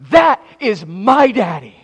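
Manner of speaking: high, loud, slow little-girl shout, imitated. Preacher imitates young daughter pointing and shouting at him, loud child voice. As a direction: proudly shout it like a small daughter. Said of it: "she shouted it".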